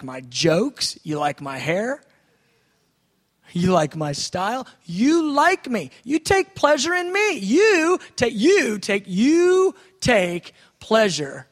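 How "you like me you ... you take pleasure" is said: much higher and louder, ecstatic; overjoyed praise, high and loud; rising joyful rapture. Shown as a demonstration. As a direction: let the joy lift the voice. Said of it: "This is how I meditate".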